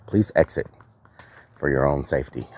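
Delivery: talking through gritted teeth. Real, not acted. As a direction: speak with the teeth clenched. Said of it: "What are you chewing?".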